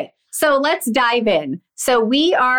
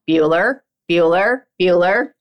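Bueller roll call; 3 semitones lower than usual. Retold or imitated. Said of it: "get that reference".

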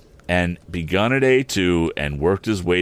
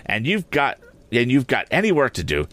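scolding sister; 6 semitones higher than usual. A narrator's reading. Sister scolds Joe in story.

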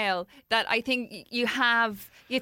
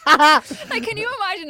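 laughing disbelief; 10 semitones higher, 9 dB louder than usual. Real, not acted.

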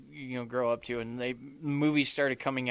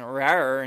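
tiny squeaky trying to roar; 4 dB louder than usual. Retold or imitated. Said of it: "Do the roar".

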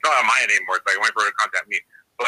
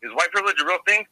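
calm question; 6 semitones higher than usual. Retold or imitated. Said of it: "walked up real calm and was like".

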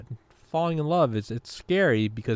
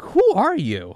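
high, loud mock challenge; who-do-you-think-you-are squeal; pitched-up loud dismissive question; mock indignant; 11 semitones higher, 7 dB louder, slower than usual. Confronting imagined nerd.

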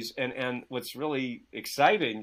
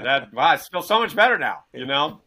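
sarcastic thanks; 7 dB louder than usual. Acted. Sarcastic thanks for useless advice.

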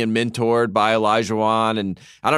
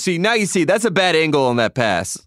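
imitating Hubie Brown; 6 semitones higher, 3 dB louder than usual. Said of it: "he goes".

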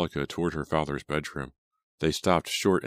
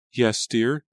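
high, louder, impatient reply; impatient fiancée, pitched up; 8 semitones higher, 6 dB louder than usual. A narrator's reading. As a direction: prod him to get on with it. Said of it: "Angelica replied impatiently".

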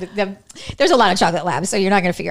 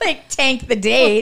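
laughing; 4 semitones higher, 4 dB louder, slower than usual. Real, not acted. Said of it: "listener laughs".

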